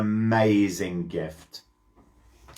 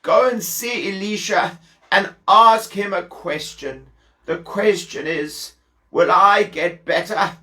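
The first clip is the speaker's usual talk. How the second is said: a higher, feeble sick king's voice; 6 semitones higher than usual. Acted. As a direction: play the ailing king asking a favour. Sick king Ben-Hadad voiced.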